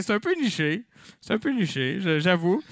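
ordinary delivery

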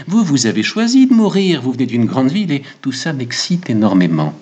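mild rush of excitement; excited barber. Acted. Narrator voices the excited barber.

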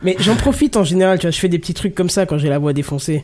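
rough, worn-out hoarse voice; hoarse from yelling. Real, not acted. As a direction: speak with a wrecked, hoarse throat. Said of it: "Est-ce que tu les sens, les clopes, là, au fond de la gorge?".

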